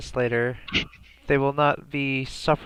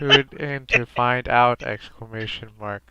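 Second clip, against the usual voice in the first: robotic voice. Pretend. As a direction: read it like a computer. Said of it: "in a robotic voice".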